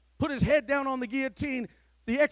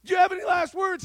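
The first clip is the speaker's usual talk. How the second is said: higher, louder demand; louder repeat; 6 semitones higher, 6 dB louder, faster than usual. Acted. Executioner repeating his question to the American, louder. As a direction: call the question out sharply.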